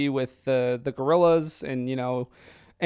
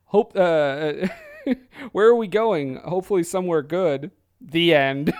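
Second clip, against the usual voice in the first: quoting the movie. Retold or imitated. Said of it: "the last line of the movie is".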